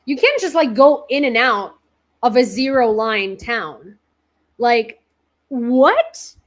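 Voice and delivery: loud, high, disbelieving; can't believe he just drove in; incredulous retort. Retold or imitated. Retold disbelief at the man.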